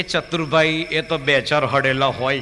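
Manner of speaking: slow, chuckling reply; laughing answer. Retold or imitated. Deaf Jasbhai answers while laughing, slowly. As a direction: chuckle through the words, slowly.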